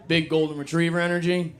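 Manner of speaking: disbelieving echo of the phrase, pitch up; incredulous repeat. Real, not acted. Comic echoing a girlfriend's phrase, incredulous. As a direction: repeat Big golden retriever energy as if you can't believe it. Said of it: "You heard that?".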